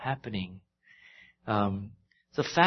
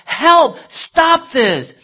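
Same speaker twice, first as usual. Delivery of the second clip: crying out for help; 13 semitones higher, 12 dB louder, much slower than usual. Retold or imitated. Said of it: "Joseph is crying out to them".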